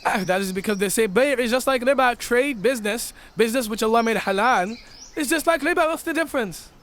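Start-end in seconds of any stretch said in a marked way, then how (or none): 1.1-6.7 tag. Acted. Acting out those who justify riba.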